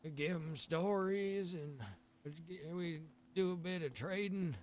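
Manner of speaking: a hint of a folksy survivor drawling his trade; One-Eyed Pete. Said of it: "I play as a character named One-Eyed Pete".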